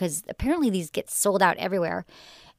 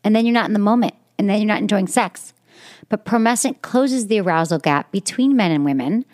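louder, upbeat sponsor read; 4 dB louder than usual. Acted. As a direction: sell it like a host-read ad.

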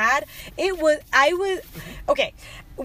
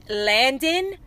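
stern mock command, slowly word by word; imitating a fed-up parent, heavy pauses between words; retold swearing; much slower than usual. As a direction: punch out each word slowly, without a full yell. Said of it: "literally screaming and swearing".

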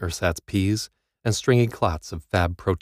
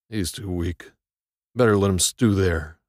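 dismissive guard. A narrator's reading. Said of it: "Nordahl butted in".

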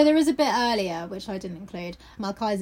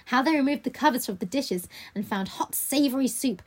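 whispered; 3 semitones higher than usual. A narrator's reading. Reads the novel aloud.

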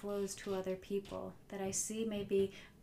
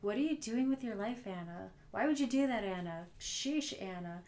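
louder, exasperated mock scolding; harsh, mean self-talk; 3 dB louder than usual. Speaker voicing her inner critic, mock exasperated. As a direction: scold yourself like a fed-up critic. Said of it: "They were not very loving thoughts".

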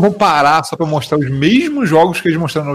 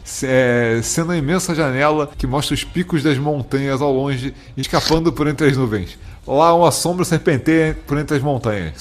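epic narrator describing a monster; dramatic reading. Acted. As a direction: build it like a grand legend. Reads a listener letter aloud. (narração épica)

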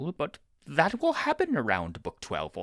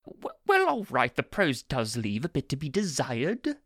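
waspish. Acted. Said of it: "Aziraphale said waspishly".

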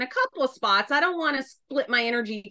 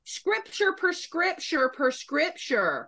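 sassy challenge; 4 semitones higher than usual. Acted. Southern Christian challenging judgmental believers, sassy challenge. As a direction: take them on, scripture for scripture.

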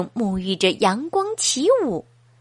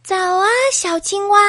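quick cheerful greeting; 7 semitones higher, faster than usual. Acted. Hedgehog greets the frog.

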